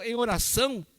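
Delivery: ordinary talk, nothing marked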